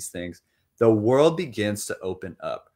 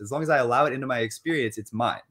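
excited and laughing, pitched higher and louder; elated; 5 semitones higher, 4 dB louder than usual. Shown as a demonstration. A joyful person shouting that anything is possible, elated. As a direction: burst out with joy, laughing through it. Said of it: "you're like".

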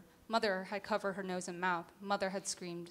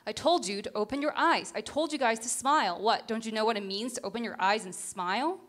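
louder scolding mother; furious mother; 6 dB louder than usual. Acted. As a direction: demand it through the slaps. Mother slaps and scolds daughter.

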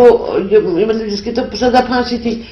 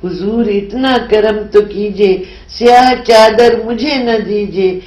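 measured, solemn Urdu recitation; poem recital. Acted. Poet reciting her nazm to the interviewer, solemn recital. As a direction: recite each line like a verse being read aloud.

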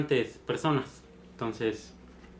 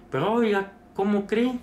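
mock outraged old man, higher and louder; indignant protest; 8 semitones higher, 4 dB louder than usual. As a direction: protest up high as the upset patient. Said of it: "el señor le dice". (protesta indignada imitada)

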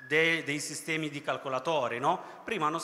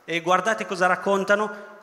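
loud call to attention; 4 semitones higher, 7 dB louder than usual. Real, not acted. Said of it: "preacher calls attention".

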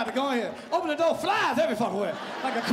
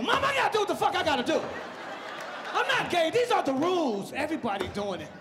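arguing with mama; 4 semitones higher than usual. Retold or imitated. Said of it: "I gotta argue her at the table".

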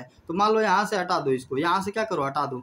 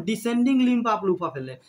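each word of the term drawn out slowly; slow dictation; 2 semitones higher, much slower than usual. Shown as a demonstration. Teacher slowly dictating the term to the class. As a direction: dictate it so students can write it down.

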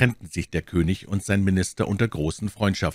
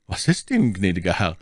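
alarmed. Acted. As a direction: ask in sudden alarm. Servant alarmed at master turning pale.

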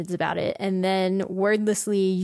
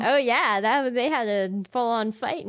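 usual speaking voice

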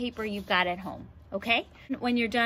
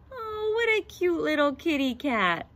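higher cooing lady voice; 6 semitones higher than usual. Acted. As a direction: coo like a lady charmed by a kitten. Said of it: "she said".

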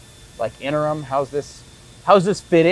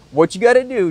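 hammed-up old guy; 8 semitones higher than usual. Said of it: "He goes".

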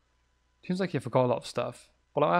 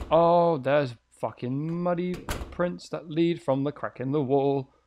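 slow, drawn-out shocked realisation; slow shocked report; alarmed discovery; 2 semitones higher, 4 dB louder, slower than usual. Real, not acted. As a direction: spell out the creepy find in disbelief. Discovers muddy prints.

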